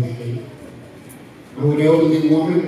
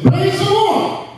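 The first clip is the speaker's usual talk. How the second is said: very high, drawn-out elation; imitated praise cry; 14 semitones higher, slower than usual. Old woman jumping and clapping over groceries, imitated elated cry. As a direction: sing out the praise high, mimicking her. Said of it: "she kept saying".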